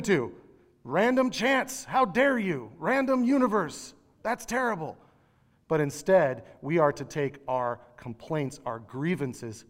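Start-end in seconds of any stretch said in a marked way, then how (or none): 0.8-5.0 high, pleading mock scream at the sky. Man at the Scream Weekend shouting at chance, mock scream. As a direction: cry out against a random universe, half-hammed. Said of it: "He's screaming".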